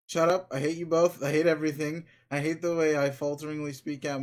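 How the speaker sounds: shouted hate at both of them; angry outburst. Acted. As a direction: lash out at everyone in self-loathing. Creature lashes out at others.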